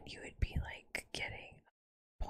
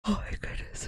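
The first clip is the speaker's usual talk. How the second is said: surprised; 8 dB louder than usual. Real, not acted. Gasped surprise.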